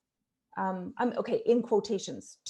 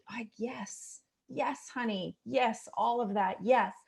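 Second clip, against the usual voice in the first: much softer, gently soothing; soft reassuring yes; 4 dB quieter, slower than usual. Retold or imitated. Mom soothing her upset teenage daughter, soft and reassuring. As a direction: hush her like a tired child. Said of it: "then you can be like".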